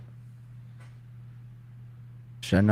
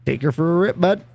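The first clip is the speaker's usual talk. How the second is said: higher, rising Canadian lilt; put-on Canadian bud talk; Canadian accent; 6 semitones higher than usual. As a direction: offer it like a Canadian buddy. Repeats the Canadian phrase in accent.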